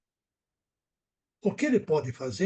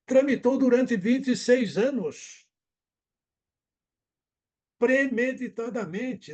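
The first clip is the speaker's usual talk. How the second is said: slow, higher, louder indignation; indignant emphasis; 6 semitones higher, 4 dB louder, slower than usual. Real, not acted. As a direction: lean hard into the outrage. Outraged emphasis on the delay. (ênfase indignada e lenta)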